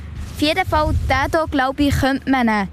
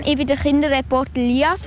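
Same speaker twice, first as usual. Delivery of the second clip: introducing himself while chewing apple; words round a bite of apple; mouth full. Real, not acted. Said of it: "Mit vollem Mund redet man eigentlich nicht".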